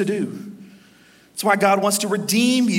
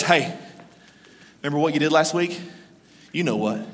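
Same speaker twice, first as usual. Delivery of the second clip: low, insinuating devil voice; sly tempter, dropped low; taunting devil; 6 semitones lower, 3 dB quieter than usual. Acted. Devil reminding a churchgoer of last week, taunting. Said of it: "And then the devil goes".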